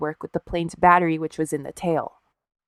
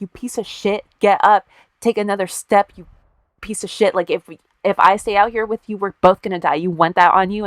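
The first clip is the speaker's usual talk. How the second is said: mock angry chewing-out, somewhat raised; retold berating yell; 2 semitones higher, 4 dB louder than usual. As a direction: berate him, acting out the yelling lightly. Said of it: "starts yelling at him and berating him".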